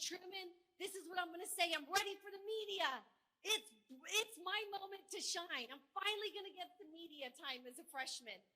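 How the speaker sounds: hammed-up eager freshman telling her staffer she's ready; excited. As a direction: retell the giddy pre-interview rush. Excited congresswoman rehearsing to staffer.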